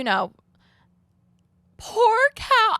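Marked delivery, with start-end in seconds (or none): 1.8-2.8 high, loud wail of sympathy; gushing pity. Real, not acted. Friend feeling for a stranded traveller, gushing pity. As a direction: pour out exaggerated pity for him. Pitying her friend who missed a flight.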